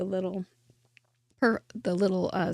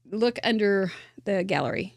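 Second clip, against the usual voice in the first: whisper. Real, not acted. Host tips viewers in a whisper. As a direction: let viewers in on a secret. Aside to viewers about gallery.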